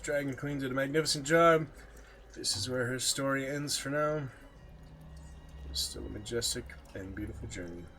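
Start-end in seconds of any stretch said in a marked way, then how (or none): 0.0-4.2 loud, raised, proud praise; excited praise. Real, not acted. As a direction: cheer her on loudly. Praising his character's finale.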